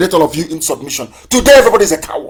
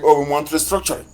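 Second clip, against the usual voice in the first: 1 mocking whine; 2 semitones lower, 6 dB quieter, faster than usual.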